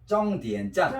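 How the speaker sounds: 쫑디엔 짠 said as Chinese zhōngdiǎn zhàn; Chinese pronunciation demo. Shown as a demonstration. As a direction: model 쫑디엔 짠 as Chinese, with tense onsets and n endings. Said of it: "중국 발음은 종점 참과 비슷하게 쫑디엔".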